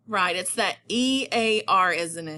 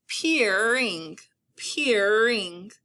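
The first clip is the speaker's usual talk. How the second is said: PEERING stretched as one connected word; drawn-out word; much slower than usual. Shown as a demonstration. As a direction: say "peering" long, without a break. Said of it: "depending on how I say".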